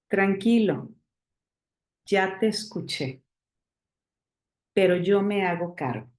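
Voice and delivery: gentle, steady and unhurried, no edge; calm a crying child while holding him close; soft but firm calm voice. Shown as a demonstration. Parent soothing a child mid-tantrum, softly firm. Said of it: "con la voz suave, pero firme, calmada".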